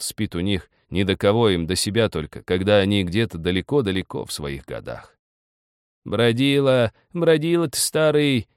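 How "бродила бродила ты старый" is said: high, scolding cry in the dark; old woman shouting. A narrator's reading. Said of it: "кричала во тьме старуха".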